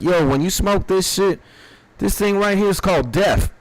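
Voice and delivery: a touch of a stand-up comic hyping the joint; Cat Williams. Retold or imitated. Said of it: "Cat Williams skit ... He's like".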